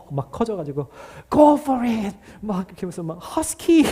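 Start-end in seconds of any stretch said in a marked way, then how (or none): 1.3-2.2 high shouted cheer from the stands. Retold or imitated. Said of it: "소리를 지르고 있는 제 모습". 3.2-3.8 high shouted cheer from the stands. Retold or imitated. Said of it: "소리를 지르고 있는 제 모습".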